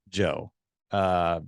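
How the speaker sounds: doubtful, hesitant address to a friend; subdued, skeptical tone; disapproving. Shown as a demonstration. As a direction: say it as if unimpressed. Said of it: "The other one's like".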